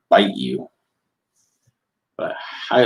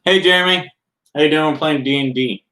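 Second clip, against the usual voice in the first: high loud chirpy greeting; bright put-on voice, pitched well up; prince voice; 8 semitones higher, 4 dB louder than usual. Prince Vince's voice, recalled as a greeting to Jeremy, high and loud. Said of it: "It was like".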